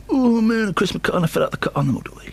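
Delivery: high, hushed, breathless rushed impression; gasp, then gabble it in a high whisper; a singer. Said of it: "doing an impression of a singer".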